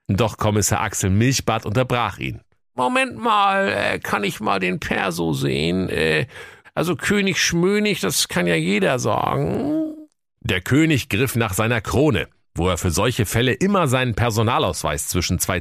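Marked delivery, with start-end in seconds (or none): 2.7-9.9 high, officious cop voice; nosy policeman, pitched up; police commissioner voice. Acted. (hohe, wichtigtuerische Kommissarstimme)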